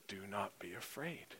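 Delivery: soft, comforting promise; gentle reassurance. Acted. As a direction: hush it like calming a frightened friend. Closing comfort, Jesus's words.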